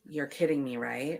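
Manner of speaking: hushed, very quiet, dead calm delivery. Retelling a complaint to a store clerk: retelling saying it very calmly. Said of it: "I said very calmly".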